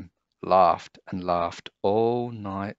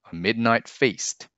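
ordinary delivery, nothing marked

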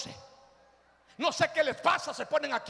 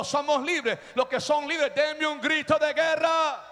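drawn-out, rallying preacher's call; rousing preaching; slower than usual. Real, not acted. Preacher to those who are free, rousing them. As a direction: build to a war cry. Rallies congregation.

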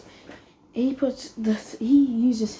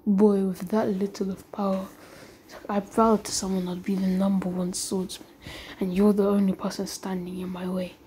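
low challenge; 3 semitones lower, 5 dB quieter than usual. Acted. Acted sword challenge exchange.

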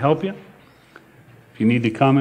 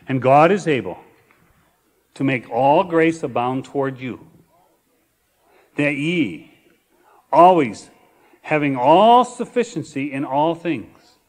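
slow, spaced reading with long pauses; slower reading; 2 semitones lower than usual. Shown as a demonstration. Pastor rereading the verse to the congregation, slowly and deliberately. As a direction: draw out each phrase of the verse. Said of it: "Let me read a little bit slower".

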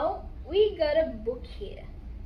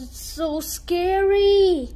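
slow, drawn-out mock fright; hammed-up scary aside; mock scared; 4 semitones higher, 4 dB louder, slower than usual. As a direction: spook the listener playfully. Mock fright aside while reading.

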